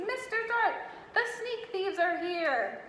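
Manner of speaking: loudest terrifying shout. A narrator's reading. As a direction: yell for the police with all your might. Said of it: "he shouted in his loudest, most terrifying voice".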